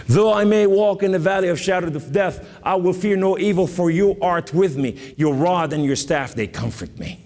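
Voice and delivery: scripture recitation. Acted. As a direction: proclaim the psalm from the pulpit. Recites psalm with rising force.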